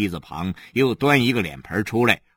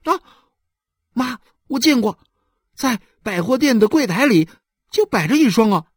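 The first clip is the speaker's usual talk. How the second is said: put-on higher and louder boyish voice; a boy keen to show he knows; eager young boy; 12 semitones higher, 5 dB louder than usual. Son eagerly telling his mother, higher boyish voice.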